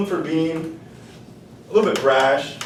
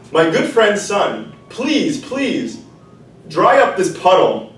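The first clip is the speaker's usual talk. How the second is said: pleading rooster; 2 semitones higher, 4 dB louder than usual. Acted. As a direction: beg the sun, then list the chain. Rooster begging the sun.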